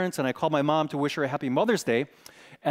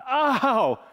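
much higher pained yelp; high retold cry of pain; 8 semitones higher, 3 dB louder than usual. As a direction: cry out as the anesthetic fails. Feeling the scraping.

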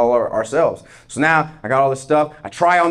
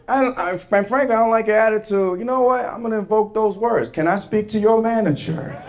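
raised, huffy complaint about her attitude; indignant customer; 5 semitones higher than usual. Retold or imitated. Customer to cashier, huffy and raised. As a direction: puff up and demand the manager. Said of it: "demanding the manager".

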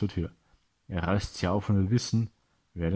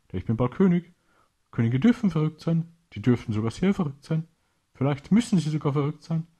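higher, louder mad gloating; a triumphant traitor savouring his plan; crazed, boastful pirate voice; gloating villain; 7 semitones higher, 4 dB louder than usual. A narrator's reading. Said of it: "lacht und erklärt ihm dann".

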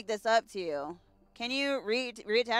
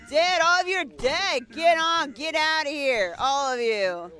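loud taunting; 2 semitones higher, 5 dB louder than usual. Acted. Gunning down aliens.

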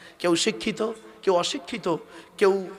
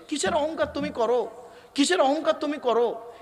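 rebuking question; 5 semitones higher than usual. Acted. Preacher rebukes pride.

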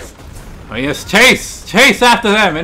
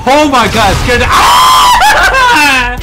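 scared yelp; much slower than usual. Real, not acted. Gamer to teammates after an explosion, scared yelp. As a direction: jump out of your skin, then laugh.

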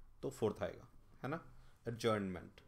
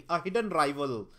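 slow reading aloud; 4 dB louder, much slower than usual. Shown as a demonstration. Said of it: "reading an option".

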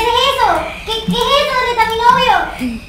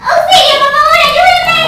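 loud, higher, desperate call for help; cry for help; 7 semitones higher, 12 dB louder, slower than usual. Acted. Trapped girlfriend screaming for someone to save her. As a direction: shout for rescue as if trapped.

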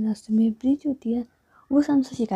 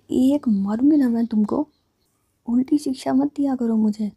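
mock threat; 4 dB louder than usual. The speaker stops scooter, scolds friend.

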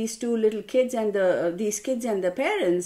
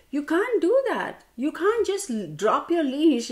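higher-pitched retold reprimand; indignant scolding; 5 semitones higher than usual. Dog owner to neighbour about dropped leash, indignant scolding. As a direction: lay down the law, indignantly. Rehearsing angry note to lady.

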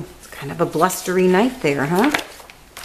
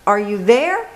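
high calls into the storm; calling out; 5 semitones higher than usual. Acted. Friends searching the forest, calling for lost Bear. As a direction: call across the dark woods. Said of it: "They call".

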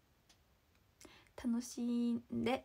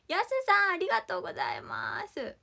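excited thanks; 6 semitones higher, 8 dB louder than usual. Real, not acted. Thanking a viewer by name.

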